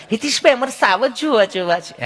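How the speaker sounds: a prim city lady's voice, saying સાવજ carefully; posh city lady. Retold or imitated. A city lady telling the host she wants to see lions. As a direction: mimic the refined guest asking to see lions. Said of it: "એમાંને એક બેન બોલ્યા".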